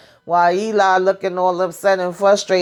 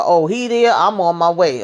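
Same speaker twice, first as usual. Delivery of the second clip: sudden eager change. Retold or imitated. Recapping how he changed his tune on the call, mock eagerness. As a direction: jump up in pitch, suddenly interested. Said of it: "his voice and stuff changed".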